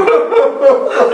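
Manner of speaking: short burst of high weeping; high sob. Acted. Friend confirming the heartbreak, sobbing. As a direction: break into a falling sob. Everyone weeping over lost loves.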